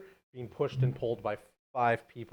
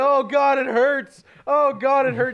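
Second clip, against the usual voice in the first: mock shaking scream, much higher, louder, slower; 14 semitones higher, 13 dB louder than usual. Describing a woman in a movie being eaten by a shark, retelling screaming and shaking. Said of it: "she's screaming and she's shaking and she's going".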